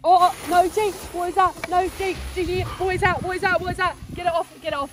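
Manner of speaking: panicked get it off; phobic panic. Real, not acted. Blindfolded, smelling something nasty.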